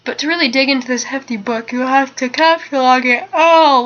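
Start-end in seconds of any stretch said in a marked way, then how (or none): 1.7-3.8 talking into a real yawn; a yawn breaking through, swelling louder on the last word. Real, not acted. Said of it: "Lord, stop yawning".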